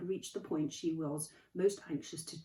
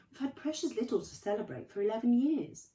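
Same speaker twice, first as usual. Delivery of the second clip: put-on kindly old Dumbledore; 6 semitones higher, 6 dB louder than usual.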